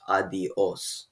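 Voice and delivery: adios with the stress on the final OS; adios, leaning on its accented last syllable. Shown as a demonstration. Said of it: "syllable is stressed and it's pronounced".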